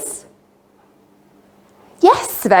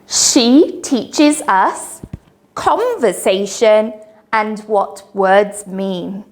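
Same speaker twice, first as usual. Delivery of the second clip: sing song rote recitation. Shown as a demonstration.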